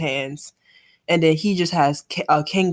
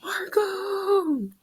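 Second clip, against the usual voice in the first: battle cry; 13 semitones higher, 4 dB quieter than usual. Acted. Reading battle shout.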